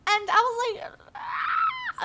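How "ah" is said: very high, thin mock scream; frustrated squeal. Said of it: "I'm so mad right now".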